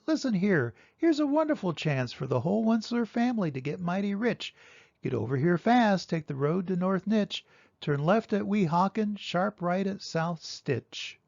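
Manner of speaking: fast, excited rush of directions; eager Onceler on the phone. Acted. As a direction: rattle off the call quickly, eager to get rich. Onceler phones his family.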